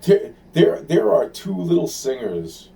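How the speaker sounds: a sudden agitated rush of pitch; excited outburst. Real, not acted. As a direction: blurt it out all at once. Sudden burst about two singers.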